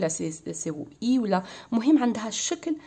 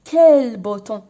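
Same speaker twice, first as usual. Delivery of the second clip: loud exclamation of "كال بوتون"; exclaiming; 11 dB louder than usual. Shown as a demonstration. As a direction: exclaim it loudly as a model of an exclamation. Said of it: "par exemple كال". (نطق "كال بوتون" بتعجب وبصوت أعلى بكثير)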